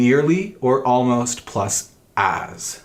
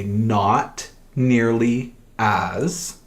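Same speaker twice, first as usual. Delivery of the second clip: "not nearly as" drawn out slowly, weight on "nearly"; slow emphatic "not nearly as"; stress on nearly; much slower than usual. Shown as a demonstration. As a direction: lean hard on "nearly", very slow. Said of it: "to give emphasis".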